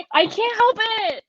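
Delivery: slow, high, giggling admission; laughing. Real, not acted. Caught out by her friend, speaking through real laughter. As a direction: laugh it out, helpless. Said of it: "I'm cracking up watching you".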